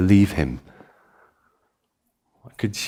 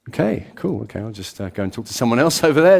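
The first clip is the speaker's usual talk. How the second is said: awkward exit; faster than usual. Retold or imitated. Guest making awkward escape.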